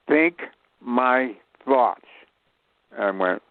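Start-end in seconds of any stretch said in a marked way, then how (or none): 0.1-2.1 slow, lightly voiced wise gorilla; drawn out like an ape sage; slow solemn gorilla. Bushman the gorilla to Bruce, a slow solemn voice. Gorilla gives acting lesson.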